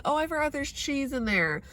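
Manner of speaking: breezy airy excuse, lightly mocked; mock careless friends. Mocking friends who forgot the cheese. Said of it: "where people ask me".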